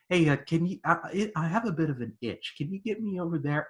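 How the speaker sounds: mock-casual, playing down the pain; laughing it off. Bond taunting his torturer, laughing it off. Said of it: "he kinda laughs it off".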